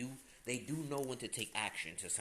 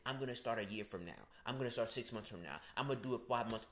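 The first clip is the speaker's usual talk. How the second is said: mocking procrastinators; 3 semitones lower, faster than usual. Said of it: "people who say".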